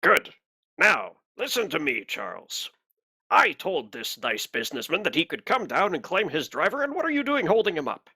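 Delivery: lightly voiced scolding boss, rising high at the end; arbitrator impression. Fake arbitrator scolding Charles for holding up a businessman, indignant impression. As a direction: dress down a subordinate. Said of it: "do a good enough impression".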